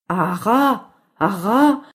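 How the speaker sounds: imitated parrot squawk; parrot call. (cri de perroquet imité)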